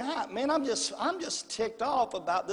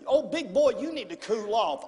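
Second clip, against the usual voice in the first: teasing wife; 4 semitones higher than usual. Retold or imitated. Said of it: "said these words to me".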